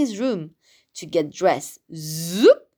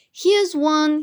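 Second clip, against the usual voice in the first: excited; 6 semitones higher, 4 dB louder than usual. Acted. Finds the perfect tree.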